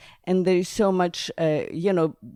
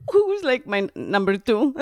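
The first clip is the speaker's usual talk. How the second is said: laughing; 3 semitones higher than usual. Real, not acted. Laughing through Soviet Union story.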